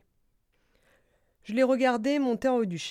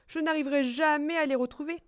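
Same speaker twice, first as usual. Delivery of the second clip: higher-pitched dismayed squirrel; squirrel lamenting; 6 semitones higher, faster than usual. Acted. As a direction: lament the loss in a small high voice. Écureuil se désole. (voix haute d'écureuil désolé)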